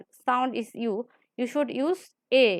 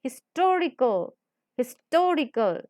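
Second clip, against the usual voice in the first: "Historical" with weight on "tor"; stress on second syllable. Shown as a demonstration. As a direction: press on the "tor" in each "Historical". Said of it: "we are stressing second to".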